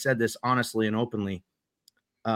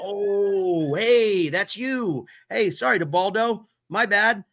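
high, caught-out apology; oops, it was you, sorry; sheepish surprise; 7 semitones higher, much slower than usual. Retold or imitated. Player apologizing to the teammate he shot, sheepish and high.

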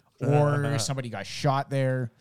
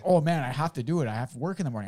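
imitated whiny protest, pitched up; pleading excuse; 3 semitones higher than usual. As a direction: make a put-upon neighbour's excuse. Retold neighbour pleading his excuse.

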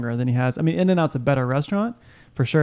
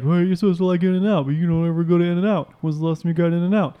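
Natasha; 3 semitones higher than usual. Retold or imitated. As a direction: pitch it up, teasingly imitating her giving grief. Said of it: "It's a spot on Natasha impersonation".

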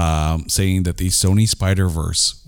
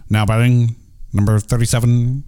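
stadium announcer. Shown as a demonstration. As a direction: announce the batter with reverb. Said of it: "put the, the reverb on there".

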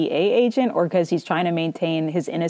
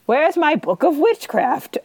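mock frantic Walt; 8 semitones higher than usual. Mocking Walt's demand.

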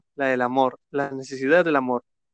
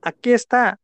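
put-on old man's voice rising; 8 semitones higher, 4 dB louder than usual. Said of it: "la voz del viejo arrecia".

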